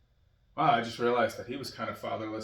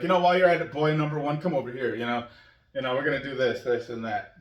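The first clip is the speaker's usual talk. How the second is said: dad giving kids orders, mock-commanding; bossy dad; 3 semitones higher, 6 dB louder than usual. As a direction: hand out chores to boy number one. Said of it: "So I'd be like".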